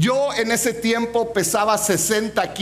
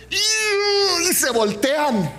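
slow drawn-out; 7 semitones higher, much slower than usual. Retold or imitated. Amigas se alejan asustadas.

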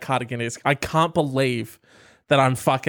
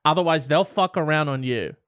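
mock Jesus sermon; 3 semitones higher than usual. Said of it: "when Jesus says".

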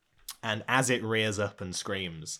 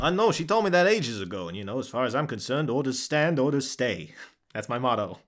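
dutiful guard dragon; 4 semitones higher, 6 dB louder, faster than usual. Acted. Dragon explains standing orders to party, stubbornly dutiful. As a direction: state it like a stubborn old guard.

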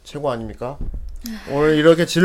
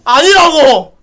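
high loud denial; laughing shout; 10 semitones higher, 7 dB louder, much slower than usual. Acted. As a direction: yell it in mock outrage. Host shouts.

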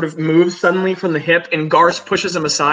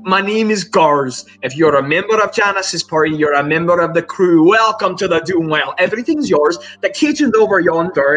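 hearty welcoming crewmate. Acted.

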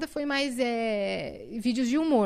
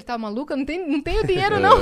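dad's reply through laughter; 5 semitones higher, 7 dB louder, faster than usual. Retold or imitated.

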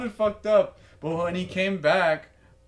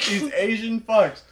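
slower, mock-echo of a friend; mimicking his phrasing; 4 semitones higher, 4 dB louder than usual. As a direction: throw his words back at him, drawn out. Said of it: "Why are you gonna say it like that".

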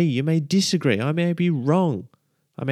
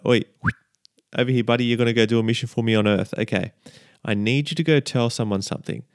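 playful God voice; 3 semitones lower, faster than usual. Pretend. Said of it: "imagine an angel being called up by God".

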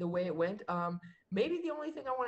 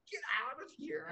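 whispered, higher, embarrassed brush-off; 7 semitones higher than usual. Retold or imitated. Brushing off the crowd's cheers in a bashful whisper. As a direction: breathe it out shyly.

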